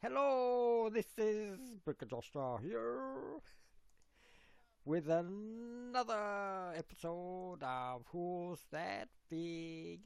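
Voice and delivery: high, drawn-out show-opening impression; Nick's Brick Life. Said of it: "let's go to his, uh, his famous one".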